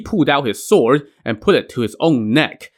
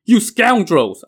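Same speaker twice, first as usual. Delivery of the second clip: high, slow, angry cry of an outraged father; father's outrage at his son's sworn brothers, furious cry; furious outburst; 9 semitones higher, 4 dB louder, slower than usual. Acted. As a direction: spit out the insult, drawn out and enraged. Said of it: "turned his ire against Huang Ming".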